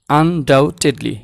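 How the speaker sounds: আনডাউটেডলি in four separate syllables; broken into syllables. Shown as a demonstration. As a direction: split আনডাউটেডলি as আন-ডাউ-টেড-লি. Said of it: "চারটি সিলেবলে ভেঙে উচ্চারণ". (আনডাউটেডলি চার সিলেবলে ভেঙে উচ্চারণ)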